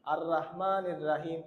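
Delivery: slow, thin র in রহমানির; wrong recitation. Shown as a demonstration. Teacher imitates how students misread the verse. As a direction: imitate the common mistake. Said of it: "ভুল".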